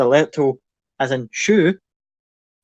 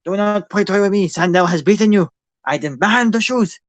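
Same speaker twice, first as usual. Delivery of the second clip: high, loud goblin screech demanding shoes; goblin bandit; 6 semitones higher, 4 dB louder than usual. Acted. Goblin thug screeching at his victim for the shoes. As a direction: squawk it like a greedy little goblin thug.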